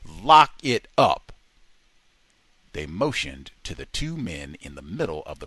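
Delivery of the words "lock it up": loud barked order; guards yelling. A narrator's reading. Guards yelling at prisoners to lock up, loud. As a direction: yell it down the corridor. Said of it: "they yelled".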